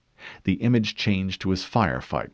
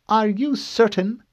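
high, precise questioning woman; cool female interrogator; 6 dB louder than usual. Acted. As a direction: question him coolly.

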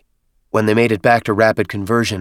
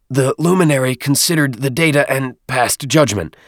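higher squeaky voice; squeaky little voice; 6 semitones higher, 4 dB louder than usual. Acted. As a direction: keep the small squeak. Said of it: "Dadab's muffled voice squeaked".

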